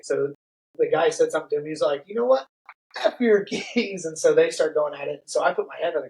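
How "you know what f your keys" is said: higher, punchy telling-off; mild hammed-up fury; mock angry retort. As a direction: snap back at the drunk. Buddy cursing out the drunk.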